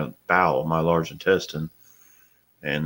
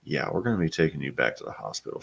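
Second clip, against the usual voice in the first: calm wife; 2 semitones lower, 8 dB quieter than usual. Retold or imitated. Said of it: "she's trying to be calm".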